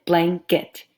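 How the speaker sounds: BLANKET broken into two clear beats; two separate chunks. Shown as a demonstration. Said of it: "Two separate chunks".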